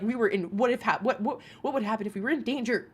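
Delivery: fast, heated retelling of the rant; mock-furious rant at the man; retold angry rant. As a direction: rattle it off like you're still mad. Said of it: "I was very angry".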